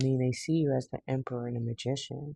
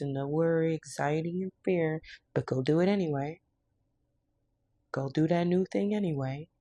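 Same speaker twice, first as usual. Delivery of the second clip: tough-love pep talk; 3 semitones higher than usual. Acted.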